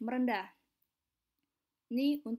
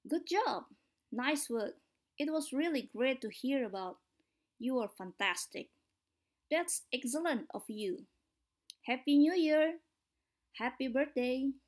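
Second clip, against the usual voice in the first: bright, rising praise with a lift on job; lively correct intonation. Shown as a demonstration. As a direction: sound genuinely pleased for them. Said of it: "pastikan menggunakan intonasi yang benar".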